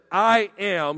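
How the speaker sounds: forceful, emphatic "I am". Acted. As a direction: hit "I am" firmly as a claim. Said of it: "he was speaking emphatically".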